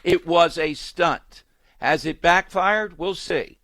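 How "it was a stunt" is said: It was a stunt, said slowly with stunt hit hard; slow, lean hard on the word stunt; stress on stunt. Shown as a demonstration. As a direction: spell it out slowly, punching stunt. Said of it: "I would have emphasized the word stunt there".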